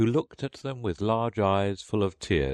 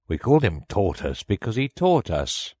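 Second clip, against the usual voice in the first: louder, higher, indignant turtle; angry; 4 semitones higher, 5 dB louder than usual. A narrator's reading. Mock Turtle correcting Alice's question, angrily. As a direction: snap back at a silly question. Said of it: "said the Mock Turtle angrily".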